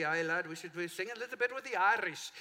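playful attempt at an Irish lilt; joking stab at Irish; Irish brogue. Shown as a demonstration. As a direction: put on a light Irish accent. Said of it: "in a Irish, in honor of Saint Patrick's Day".

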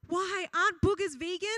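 lightly voiced child's innocent question. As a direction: ask it like a puzzled five-year-old. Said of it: "her reply was".

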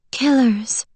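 ordinary delivery, nothing marked

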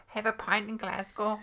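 slow put-on Scottish accent; a Scot suggesting a drink. Shown as a demonstration. Practising the city-name trick, slow Scottish accent. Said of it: "to do a, a Scottish accent".

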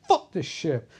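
firm mock outburst on "Fuck"; emphatic retold curse. Crew member seconding the curse, emphatic. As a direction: punch "Fuck", then drop away.

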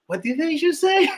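high-pitched imitated confusion; squeaky puzzled retelling; baffled. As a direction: act out not understanding a word. Retold bafflement at family's English.

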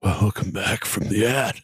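slow, drawn-out gloomy welcome; mock miserable. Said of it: "Why do you sound so miserable?".

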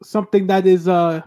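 rolls each R, lordly and grand; rolled r. Acted. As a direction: roll the R's like royalty. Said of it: "I shall roll all of my R's".

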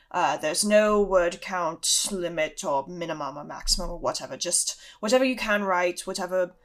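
lightly voiced teacher, easygoing; a hint of a teacher setting homework; Professor Lupin. Lupin assigning first homework to his class, lightly voiced and casual. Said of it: "Lupin leads you through this".

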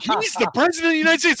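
high, loud and incredulous; exasperated yell. Retold or imitated. Stranger shouting in disbelief at the speaker. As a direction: shout it like the obvious is being denied. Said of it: "And they're like".

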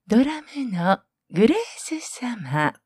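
store announcer voice. Shown as a demonstration. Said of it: "呼んでほしい？".

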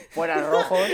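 mock shout. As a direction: call it out like a mock heckler. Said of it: "te pones a gritar". (grito de burla imitado, algo más alto)

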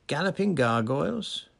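high, loud startled cry; shocked exclamation. A narrator's reading. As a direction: blurt it out in alarm. Fudge shocked by her face.

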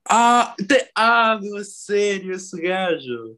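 high, disbelieving gasp of surprise; surprised. Real, not acted. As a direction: react like you can't believe it. Learns Owen Wilson is cast.

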